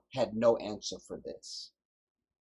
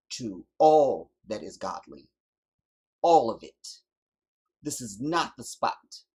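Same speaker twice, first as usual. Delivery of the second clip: fiery preaching; 8 dB louder than usual. Real, not acted. Preacher urging his people to stand firm, in loud fiery preaching. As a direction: drive the charge home from the pulpit.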